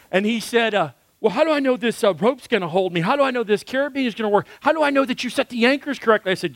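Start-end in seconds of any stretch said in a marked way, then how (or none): 1.2-6.3 fast, rising, nervous rush of questions; panicky questions. Retold or imitated. Scared climber grills his guide about the gear, rushed and panicky. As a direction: pile up the worries in a hurry.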